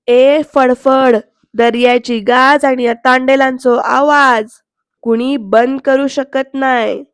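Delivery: slow, deliberate filmy dialogue; a touch of soap-opera menace; dramatic dialogue delivery. Retold or imitated. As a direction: savour each word like a threat. Matriarch's dramatic dialogue retold.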